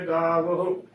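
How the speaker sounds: ਗਾਵੋ as "gaa-va-hu", with audible h; correct three-syllable reading. Shown as a demonstration. Teacher giving the correct reading, ਗਾਵੋ said "gaa-va-hu". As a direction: sound a separate final "hu" in ਗਾਵੋ. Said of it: "ਗਾਵੋ ਉਚਾਰਨ ਕਰਨਾ".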